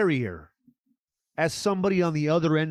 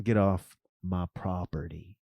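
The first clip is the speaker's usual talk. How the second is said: threatening homeowner; 9 semitones lower, 5 dB quieter than usual. Retold or imitated.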